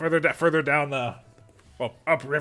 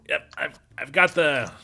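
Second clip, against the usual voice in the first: street vendor voice; 2 semitones higher than usual. Acted. Milo the vendor character voice.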